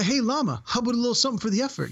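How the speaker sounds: high, fast caddy voice begging for a tip; Bill Murray's caddy. Retold or imitated. Podcaster quoting the caddy begging the Lama, high and fast. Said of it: "and then I'm like".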